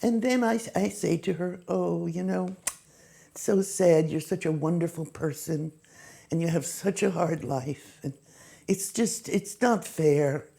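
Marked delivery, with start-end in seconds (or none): 1.7-10.5 sympathetic. Retold or imitated. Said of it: "I sympathized with her".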